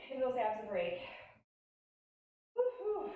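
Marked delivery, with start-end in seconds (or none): 2.6-3.1 cheering. Real, not acted. Cheering class on.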